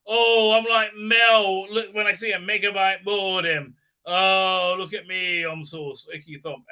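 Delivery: a mocking lightly voiced heroine; mocking impression. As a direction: drag it out like a bad melodrama. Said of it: "she's like".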